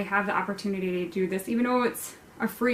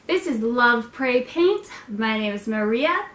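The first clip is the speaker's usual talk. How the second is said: weird intro voice. Shown as a demonstration. Host introducing her channel in a put-on voice. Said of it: "I'm talking so weird".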